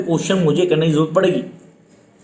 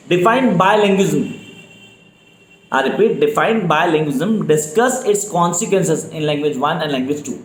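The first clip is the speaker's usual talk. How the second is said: very slow, each word spelled out for note-taking; slow dictation; much slower than usual. Shown as a demonstration. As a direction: dictate it slowly so students can write. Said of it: "speed definitely slow है मेरी". (धीमी गति से dictation)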